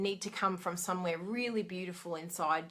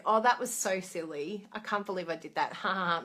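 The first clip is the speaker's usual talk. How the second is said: laughing it off. Pretend. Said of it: "just go".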